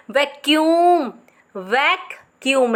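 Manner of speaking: वैक्यूम joined, slow; said as one. Shown as a demonstration. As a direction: blend it into one word. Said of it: "एक साथ बोलना है". (एक साथ जोड़कर)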